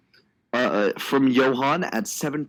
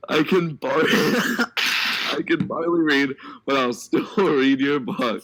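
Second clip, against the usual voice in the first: laughing; 3 semitones higher, slower than usual. Real, not acted. Reading chat while cracking up.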